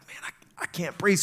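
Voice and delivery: breathy worried whisper; whispered alarm. Retold or imitated. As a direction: whisper it like you're short of air. Telling master diver underwater.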